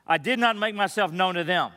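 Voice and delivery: measured, solemn Bible reading; formal church reading of Exodus; scripture reading. Acted. Reads scripture aloud before sermon.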